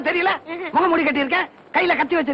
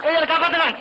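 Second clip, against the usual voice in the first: calling out for help; 3 semitones higher than usual. Acted. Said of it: "ஏன் கத்துற?".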